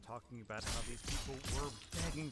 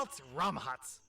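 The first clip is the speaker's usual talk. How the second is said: attempted Irish; 4 semitones higher, 7 dB louder, slower than usual. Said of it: "which I'm gonna give a stab at".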